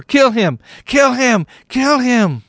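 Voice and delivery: loud, high chant that keeps building. A narrator's reading. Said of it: "they shouted louder and louder".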